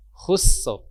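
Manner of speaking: Khusr with thin s then heavy ra. Shown as a demonstration. Teacher modelling the finished word. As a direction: say Khusr with a thick final ra. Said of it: "baru ra-nya tebal".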